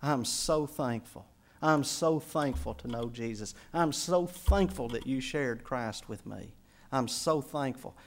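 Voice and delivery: grateful quote. Retold or imitated. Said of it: "he would always express his gratitude".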